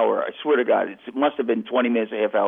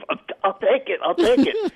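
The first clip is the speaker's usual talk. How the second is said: much higher, eager repeat of I'll take it; eager reprieve; 9 semitones higher than usual. Retold or imitated. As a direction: jump at the call like a last-minute pardon. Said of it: "it's like a reprieve".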